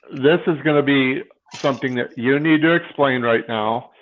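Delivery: talking through a yawn; tired, yawning words. Real, not acted. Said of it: "I'm sorry I'm yawning so much".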